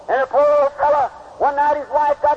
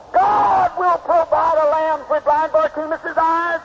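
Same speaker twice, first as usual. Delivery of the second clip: preaching shout; slower than usual. Acted. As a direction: shout it out slowly like a preacher's climax. Preacher climaxes quoted promise.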